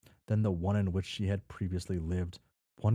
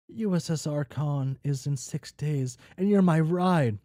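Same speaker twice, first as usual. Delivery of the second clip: higher and louder, building to a shout; shrill wife yell; 8 semitones higher, 5 dB louder than usual. A narrator's reading. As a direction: nag him loudly about the ride. Wife yelling at husband.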